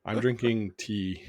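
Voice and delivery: blocked nose, under the weather; stuffed up nose. Real, not acted. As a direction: talk with a head cold. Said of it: "you're a little under the weather today".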